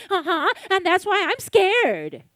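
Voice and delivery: put-on high childlike whine; little girl voice. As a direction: answer like a small scared kid. Little girl answers again.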